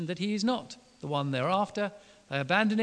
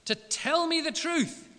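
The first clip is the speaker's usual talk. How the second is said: exasperated; 4 semitones higher, 5 dB louder than usual. Retold or imitated. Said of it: "he gets angry".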